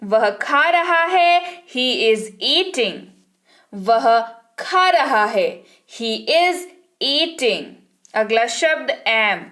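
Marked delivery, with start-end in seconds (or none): 1.8-3.0 slow, careful model sentence; slow dictation. Shown as a demonstration. Teacher dictating to students, slow. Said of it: "teacher models English sentence". 6.0-7.6 slow, careful model sentence; slow dictation. Shown as a demonstration. Teacher dictating to students, slow. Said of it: "teacher repeats model sentence".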